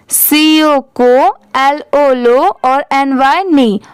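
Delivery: letters then sound, को, लो, नी each separate; teacher splitting कॉलोनी into को, लो, नी; syllable-by-syllable spelling. Shown as a demonstration. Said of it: "अगर इसे separate separate पढ़े तो ऐसे पढ़ेंगे".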